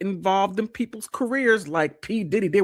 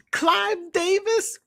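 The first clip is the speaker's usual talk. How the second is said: breathy high whisper of the name; slower than usual. Real, not acted.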